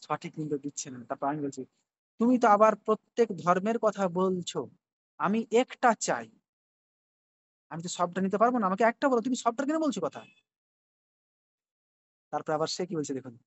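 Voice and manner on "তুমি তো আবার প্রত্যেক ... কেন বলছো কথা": rising insistent challenge, no backing down; raised-voice challenge. Retold or imitated. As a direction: demand a straight answer, voice up. Reading his own challenge to AI.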